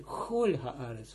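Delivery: chol with a rasping ch, not a k; throaty ch. Shown as a demonstration. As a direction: stress the guttural ch in chol. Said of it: "Ik spreek het uit".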